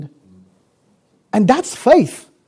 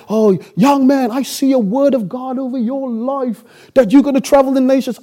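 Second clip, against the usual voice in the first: mock prophesying churchgoer; 3 semitones higher than usual. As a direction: intone it like a well-meaning prophet. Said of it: "wherever you go and preach and people say".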